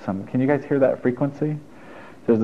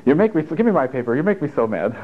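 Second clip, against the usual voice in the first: higher mock scolding; scolding dog owner; 4 semitones higher than usual. Owner scolding dog over chewed paper, mock mad. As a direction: lightly act out fussing at a dog. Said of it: "our dogs".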